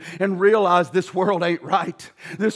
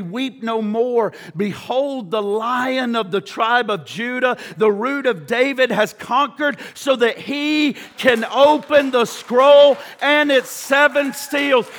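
elder's command. Acted. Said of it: "one of the elders said to me".

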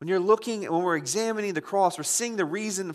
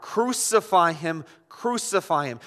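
retold crowd cry; 3 dB louder than usual. Preacher voicing the chief priests' demand to Pilate, crying out. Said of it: "they cried out".

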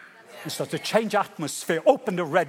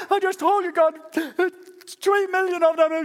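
high, loud, slowed exasperation; frustrated Moses; 14 semitones higher, 5 dB louder than usual. Acted. Moses snapping back at God, high and loud. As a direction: throw up your hands at heaven.

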